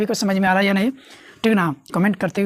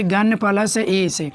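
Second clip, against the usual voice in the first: slow repeat; much slower than usual. Shown as a demonstration. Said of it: "क्या लिख दिए?".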